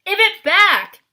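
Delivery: high, very loud furious yell; old hag yelling at her sister. A narrator's reading. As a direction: scream to get the tooth back.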